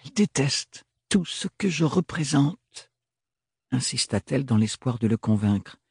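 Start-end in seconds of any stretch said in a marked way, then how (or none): 0.0-2.9 jeune femme, voix plus aiguë, inquiète; Ophélie qui plaide sa cause, un peu plus haut; voix d'Ophélie. A narrator's reading. Ophélie voiced by narrator. (Ophélie convainc Thorne, voix plus aiguë et tendue)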